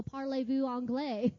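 put-on French in a plain American accent; imitated American-accented French; Americanized French. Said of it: "in, like, a very Americanized tone".

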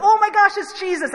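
high, loud astonished gasp; sudden recognition, thrilled; startled oh my gosh; surprised. Retold or imitated. Disciples recognise Jesus.

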